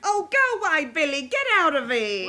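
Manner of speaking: frantic warning. Acted. Mother warns son police are here.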